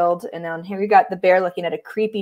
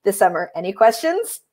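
sheepish cat counselor; 3 semitones higher than usual. Acted.

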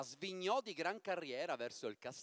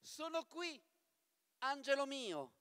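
higher, softer sweet murmur; 7 semitones higher, 5 dB quieter than usual. Acted. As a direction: coax him gently from behind. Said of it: "mormorò una voce soave". (mormorio soave, più acuto e piano)

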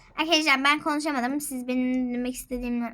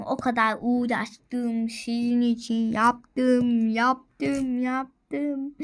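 pleading; much slower than usual. Acted. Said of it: "çok dilendim".

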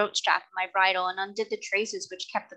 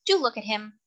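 put-on young girl pleading; 4 semitones higher than usual. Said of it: "she said".

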